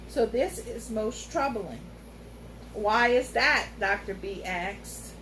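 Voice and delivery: unhurried storyteller cat, grave; lightly voiced wise cat.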